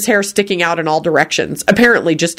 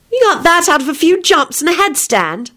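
put-on higher disbelieving girl; incredulous; 11 semitones higher than usual. A narrator's reading. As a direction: ask it in disbelief. Rosie incredulous.

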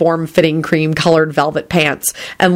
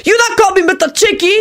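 put-on high, caricatured Asian accent; Asian-accented call. A narrator's reading. Man objecting from behind, high Asian accent. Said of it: "an Asian man behind them called out".

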